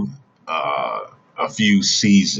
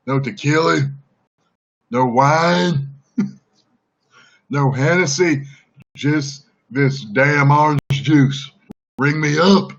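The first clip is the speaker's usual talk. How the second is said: higher put-on Southern redneck accent, swaggering; a Southern redneck brawler buying orange juice at the grocery; Southern redneck accent, pitched up and cocky; Stone Cold southern redneck; 7 semitones higher than usual. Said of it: "talking like a southern redneck".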